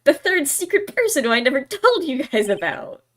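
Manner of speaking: loud, stagey astonishment; hammed-up breathless revelation; dramatic realization. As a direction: announce it as a sudden shocking discovery. Witness stages a sudden realization.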